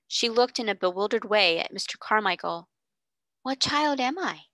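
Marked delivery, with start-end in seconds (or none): 3.4-4.5 faltering. Acted. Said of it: "she faltered".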